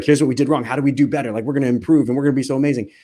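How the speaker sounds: a touch of impatient coach; eager to fix. Retold or imitated. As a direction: jump straight into what went wrong. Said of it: "be like".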